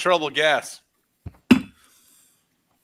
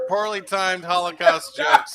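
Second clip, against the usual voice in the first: proclaimed; 3 semitones higher than usual. Acted. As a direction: announce it like a verdict. Host proclaims the winning card.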